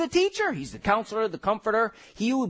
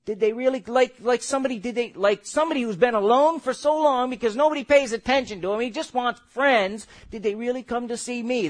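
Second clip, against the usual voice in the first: a lightly voiced small boy, wistful; small boy's voice. Preacher retelling the Holy Ghost's small lonely voice, lightly voiced. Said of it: "That's the tone, that's the way he said it".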